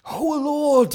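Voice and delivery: rising, fervent call to the Lord; David crying to the God of Moses; impassioned cry. Acted. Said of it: "he cries out".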